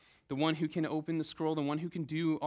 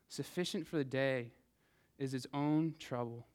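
measured, reverent Bible reading; scripture reading. Acted. Reads scripture aloud in church.

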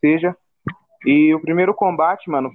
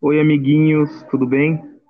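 put-on kids show host; slower than usual. Greets listeners as little friends.

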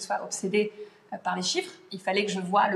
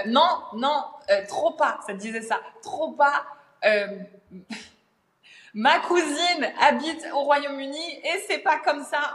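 high, louder mock insistence with a laugh; know-it-all commenter parody; 6 semitones higher, 4 dB louder, slower than usual. Quoting a commenter who corrected her accent, high mocking insistence. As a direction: ham up a smug correction. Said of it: "quelqu'un qui a écrit".

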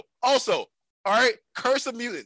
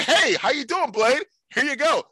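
higher-pitched, outgoing friendly hello; super nice greeting; 4 semitones higher than usual. Acted. Outgoing lady greets Blade before shaking his hand, friendly. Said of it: "Super nice and outgoing lady".

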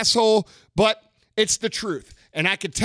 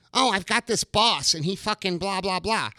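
softer dismissive parody of a whiner; mocking whiny complaint; 4 dB quieter than usual. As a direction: brush off the complaint, trailing into blah blah. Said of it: "I read your fucking D Ms".

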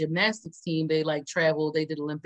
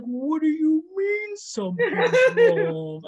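laughing mock boyfriend; 9 semitones higher, 4 dB louder, slower than usual. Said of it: "He's like".

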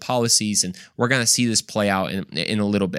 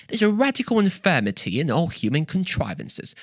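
a light, mock British accent, pitched up; 5 semitones higher than usual. Lecturer quoting Edmund Burke to the class in a mild British accent. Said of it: "he said in, in the British accent".

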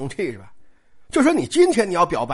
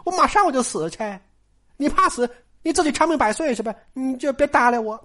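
put-on a higher, quick young girl's sulk; petulant Daiyu; 4 semitones higher than usual. A lightly voiced Daiyu brushing Baoyu off. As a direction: toss the words at him like a hurt girl.

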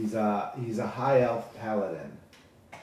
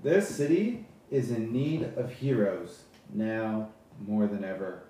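paladin speech. Acted. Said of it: "He says".

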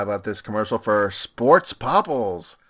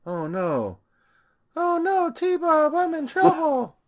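mock panic; 4 dB louder, slower than usual. Mock cartoon character panicking.

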